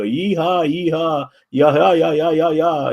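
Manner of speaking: high whooping cowboy cheer; hammed-up yeehaw holler. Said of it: "You go".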